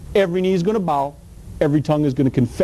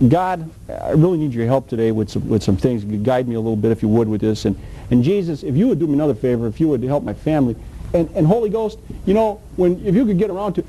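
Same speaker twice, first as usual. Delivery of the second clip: sarcastic mock prayer; 5 semitones lower than usual. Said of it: "now this is a little sarcastic".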